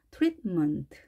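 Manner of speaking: 트리트먼트 with the middle 트 clipped to a bare t; pronunciation demo. Shown as a demonstration. Teacher modelling 트리트먼트 for Korean learners. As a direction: say 트리트먼트 as treat-ment, tongue tip touching the ridge. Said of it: "트릿하고 혀끝이 치경에 닿은 상태에서".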